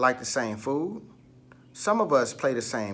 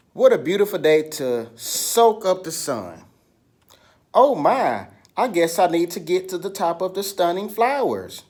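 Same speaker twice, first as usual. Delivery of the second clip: higher, louder, bright storybook critter voice; cheerful activity character; 4 semitones higher, 5 dB louder than usual. Acted. Teacher acting a sunny creature for the children, higher and louder. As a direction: play the little creature out in the sun, excited.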